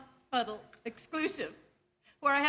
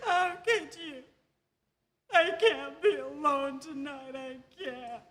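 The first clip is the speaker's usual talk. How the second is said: tearful. Acted. Wife abandoned by husband Albert.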